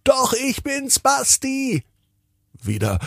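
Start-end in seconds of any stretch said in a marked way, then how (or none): 0.0-1.8 sehr hohe, kindliche Stimme; Kinderstimme Basti. Acted. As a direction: wie ein kleiner Junge, hoch und fröhlich. Kleiner Bruder ruft herunter. (der kleine Bruder ruft von oben zu Tina, sehr hoch)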